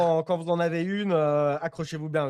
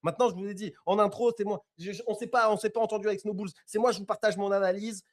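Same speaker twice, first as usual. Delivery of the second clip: excited and a bit higher; bragging in mock triumph; hyped up; 4 semitones higher than usual. Real, not acted. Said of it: "je me sens chaud de ouf". (tout excité et fanfaron)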